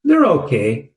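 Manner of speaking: a flat, lukewarm "They're okay."; dismissive "They're okay", deliberately understated; unimpressed. Retold or imitated. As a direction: shrug off "okay" without any enthusiasm. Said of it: "And I said in this tone".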